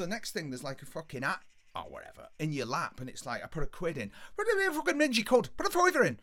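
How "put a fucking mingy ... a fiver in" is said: high, loud, indignant yell; scolding demand. Retold or imitated. Ringleader to man who put a quid in, scolding shout. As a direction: shame him into paying up.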